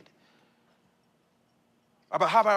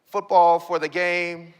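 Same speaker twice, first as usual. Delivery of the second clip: ordinary talk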